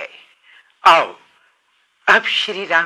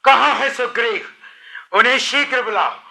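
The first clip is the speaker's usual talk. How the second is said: raised-pitch, wrathful royal threat; angry demand; 4 semitones higher than usual. Acted. Lakshman demanding Sugriv at the city, angry. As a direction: demand it in acted anger. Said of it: "क्रोध देखि".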